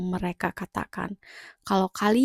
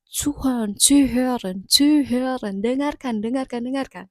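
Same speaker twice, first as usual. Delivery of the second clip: higher, insistent repeated commands; stern German colleague; 5 semitones higher than usual. Retold or imitated. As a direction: scold them to just listen. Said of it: "mereka bakal pasti bilang kayak". (rekan kerja Jerman menegur, suara lebih tinggi dan mendesak)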